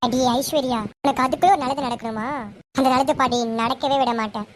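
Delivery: low, cold scheming threat; a villain vowing revenge under her breath. Acted. Daughter-in-law alone, plotting against Aishwarya: low menacing vow.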